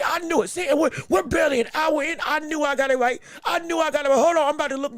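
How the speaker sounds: excited I-knew-it shout; excited gloating. Real, not acted. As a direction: crow that he was right.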